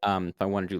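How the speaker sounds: ordinary talk, nothing marked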